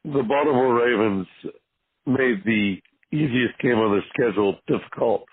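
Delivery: a little hoarse after yelling; lost voice, hoarse and strained. Real, not acted. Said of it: "I apologize for being a little hoarse".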